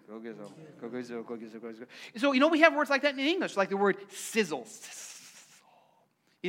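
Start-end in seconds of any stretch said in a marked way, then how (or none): 0.1-1.9 "Go Gizzo" murmured low and much softer, slowly; slow murmuring. Shown as a demonstration. Pastor showing congregation the murmuring word, low and soft. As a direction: mumble "Go Gizzo" under your breath, drawn out. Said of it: "say it kind of slow and murmuring".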